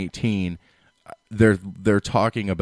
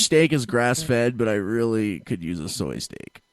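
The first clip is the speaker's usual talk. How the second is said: mock Californian diner; slower than usual. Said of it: "you've literally described, like, eighty percent of Californians".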